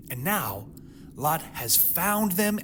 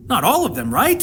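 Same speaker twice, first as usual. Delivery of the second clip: high, loud insistent question; emphatic rhetorical push; 8 semitones higher, 6 dB louder than usual. Real, not acted. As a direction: drive the point home. Preacher presses rhetorical point.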